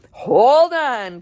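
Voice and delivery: loud warning call; cry out. Acted. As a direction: brace them for takeoff. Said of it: "cried Mister Wonka".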